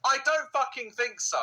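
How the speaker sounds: loud, high, drawn-out disbelief; incredulous outburst. Real, not acted. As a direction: shout it slowly, half laughing in disbelief. Scoffs at the trainer's claim.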